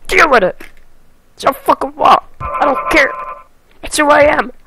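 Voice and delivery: loud, high mock defiance; defiant shouting. Gamer defending himself to nobody, defiant shouting. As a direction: throw it out loud, over the top.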